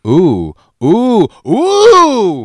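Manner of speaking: rising excited ooh. Real, not acted. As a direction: squeal with delight. Excited reaction to Spain pick.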